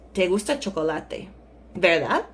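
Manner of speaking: level statement, then a rising verdad; statement then tag question. Shown as a demonstration. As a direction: tack on verdad as a questioning rise. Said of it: "first part could be a statement".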